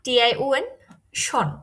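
"শন" said with a sh sound, as in English; English -tion sound. Shown as a demonstration. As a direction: say "শন" as one English-style "shon". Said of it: "কিন্তু জার্মানে".

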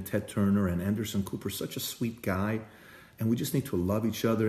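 mock tender Trump address; soft loving Trump. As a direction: play Trump as unexpectedly sweet and gentle. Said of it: "Trump comes out and he says something like this".

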